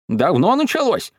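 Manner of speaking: urgent question. A narrator's reading. Alarmed grandmother questions the children.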